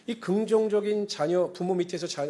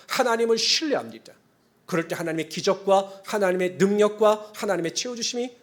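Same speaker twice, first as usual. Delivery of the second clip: preach; 2 semitones higher, 5 dB louder than usual. Real, not acted. Preaches on almighty Creator God.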